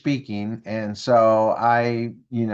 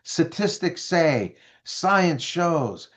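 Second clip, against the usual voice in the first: intelligence person; 5 semitones higher, slower than usual. Retold or imitated. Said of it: "this one person that's intelligence".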